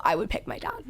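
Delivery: soft confiding whisper; whispered aside. Real, not acted. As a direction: whisper it like a secret. Whispered aside about her dad.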